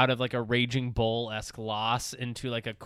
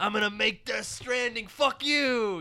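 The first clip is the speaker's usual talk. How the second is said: arrogant mock boast; 8 semitones higher, slower than usual. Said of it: "a guy wearing sunglasses inside being like".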